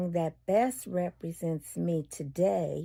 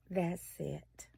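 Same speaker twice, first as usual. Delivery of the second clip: whisper; 2 semitones lower, 10 dB quieter than usual. Real, not acted. Whispered aside after answer.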